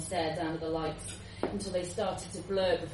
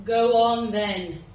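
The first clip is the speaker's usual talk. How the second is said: bored repeat; 6 dB louder than usual. Acted. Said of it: "he repeated".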